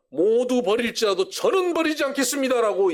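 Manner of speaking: a fervent vow. Retold or imitated. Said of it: "목소리 높였는데".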